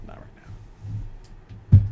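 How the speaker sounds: very slow, breathy whisper. Shown as a demonstration. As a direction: breathe it out slowly.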